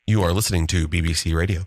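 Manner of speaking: low-pitched mock BBC announcer; BBC radio announcer. Host parodying a station ident, BBC radio announcer. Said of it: "sound like somebody from B B C".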